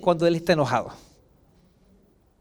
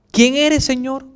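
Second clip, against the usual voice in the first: mildly frightened, raised-pitch question; understated scared question to a higher power; 5 semitones higher, 4 dB louder, slower than usual. Acted. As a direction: ask it with a touch of alarm. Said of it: "¿Cómo, cómo lo diría así con su voz? Asustado".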